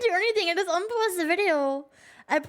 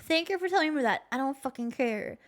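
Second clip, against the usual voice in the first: mock scammer; 2 semitones lower, faster than usual. Streamer mocks scammer's fake sympathy.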